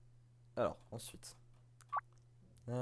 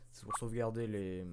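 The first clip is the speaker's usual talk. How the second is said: hushed whispered read. Acted. Reading the PC text to himself in a whisper. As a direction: breathe the words out, no voice.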